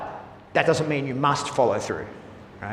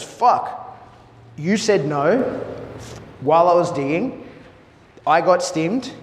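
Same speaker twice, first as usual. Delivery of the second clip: startled dog voice; 3 semitones higher, slower than usual. Retold or imitated. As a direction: play the dog just zapped and indignant. Dog voiced getting punished.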